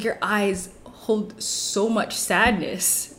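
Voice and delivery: slow, earnest mock-solemn voice; mock solemn stranger. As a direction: drag it out like a dramatic stranger. Guy's earnest line, retold.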